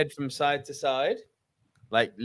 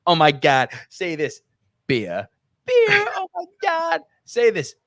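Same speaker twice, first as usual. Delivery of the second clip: higher, gushing mock fangirl voice; Denise Richards; 4 semitones higher than usual. American fans begging a British guy to talk, mock-gushing. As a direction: play an American fan thrilled by the accent. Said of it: "Denise Richards and co fucking waiting for you to say".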